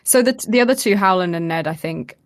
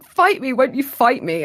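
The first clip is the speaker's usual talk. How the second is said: high-pitched retold challenge; higher, lightly acted female voice; Lyanna; 5 semitones higher than usual. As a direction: imitate a woman's voice, pitched up, pleading a challenge. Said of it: "the voice goes back to Lyanna's voice".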